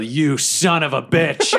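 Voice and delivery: mock battle yell. Player charges the wizard, slow mock yell of outrage. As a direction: stretch it out as a half-restrained yell. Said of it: "And I just yell".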